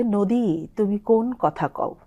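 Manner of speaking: slow recited poem line; poem recital. Shown as a demonstration. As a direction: recite it slowly and softly. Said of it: "একটা কবিতার line আছে". (ধীরে কবিতা আবৃত্তি)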